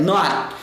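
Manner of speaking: "not" cut off on a held T; T preso. Shown as a demonstration. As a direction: keep the final T of "not" unreleased. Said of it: "Segura ele". ("not" com o T segurado, sem soltar)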